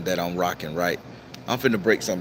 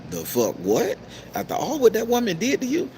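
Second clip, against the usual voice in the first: retold disbelief; 13 semitones higher than usual. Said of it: "And I'm like".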